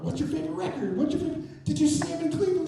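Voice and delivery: high, quick excited fan talk; excited fan chatter. Retold or imitated. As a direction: gush like eager fans.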